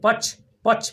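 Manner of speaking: पक्ष with emphasis on the opening प; stress on प. Shown as a demonstration. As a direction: press on the प that starts पक्ष. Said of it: "प पर जोर लगा रहे हैं".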